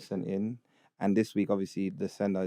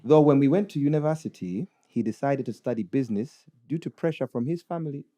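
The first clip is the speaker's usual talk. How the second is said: put-on Ugandan accent; 3 semitones higher than usual. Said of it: "read it in a Ugandan accent".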